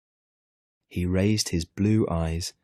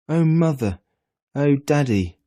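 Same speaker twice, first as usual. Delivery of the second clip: high, loud, frantic yell; boy yelling for his parents; shouting with all his might; 8 semitones higher, 6 dB louder than usual. A narrator's reading. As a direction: shout for your parents at the top of your lungs. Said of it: "he shouted with all his might".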